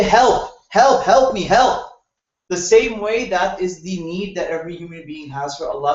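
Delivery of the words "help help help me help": urgent cry for help. Shown as a demonstration. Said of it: "They say".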